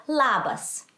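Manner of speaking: Labas with the accent on LA; stress on first syllable of Labas. Shown as a demonstration. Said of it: "where the accent of the word goes".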